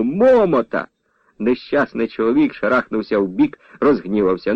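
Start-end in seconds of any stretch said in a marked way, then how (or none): 0.0-0.9 shouting. A narrator's reading. Lad hiding behind a man, shouting into his ear. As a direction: yell as if he were deaf. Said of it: "крикнув, наче глухому".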